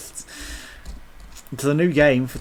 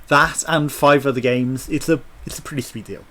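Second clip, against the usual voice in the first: choking a little on food. Real, not acted. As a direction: talk through a catch in the throat. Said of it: "Sorry, I'm choking".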